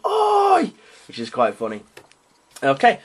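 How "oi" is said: yelling Oi. Retold or imitated. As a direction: bark it out like a brute. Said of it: "he's just yelling".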